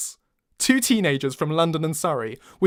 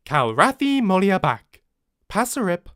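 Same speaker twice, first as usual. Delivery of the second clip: computerized voice; 4 semitones higher, 5 dB louder than usual. Acted. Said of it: "the computerized voice continues".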